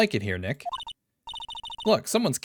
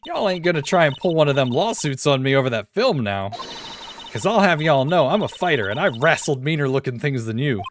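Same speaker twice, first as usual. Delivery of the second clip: put-on Southern accent; 3 semitones higher, 5 dB louder than usual. Same Southern character voice.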